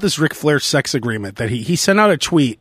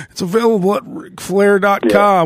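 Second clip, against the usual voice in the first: Ric Flair; 6 semitones higher than usual. Retold or imitated. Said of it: "and he's like".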